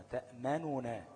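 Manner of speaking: تأمننا drawn out with the first nun carrying damma; slow sounding out. Shown as a demonstration. Teacher shows the hidden damma slowly. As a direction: stretch تأمننا syllable by syllable. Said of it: "النون الأولانية كانت إيه".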